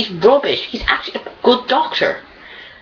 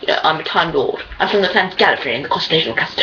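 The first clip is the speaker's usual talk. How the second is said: lightly put-on Doctor, low and gabbling towards the end; slightly lowered, dismissive imitation of the Doctor; mock Doctor voice; 4 semitones lower, faster than usual. Fan mocking the Doctor introducing himself, lightly imitated in a lowered voice. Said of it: "especially talking like, like this".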